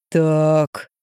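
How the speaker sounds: low, menacing single word; ominous so. A narrator's reading. Мужик грозно повторяет детективу, низко и зловеще. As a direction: say it low, promising trouble. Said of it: "голосом, не предвещающим ничего хорошего".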